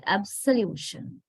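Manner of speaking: absolution with a schwa after abs; reduced second vowel. Shown as a demonstration. Teacher shows the noun form, absolution with schwa. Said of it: "is reduced to a sound in the, uh, noun".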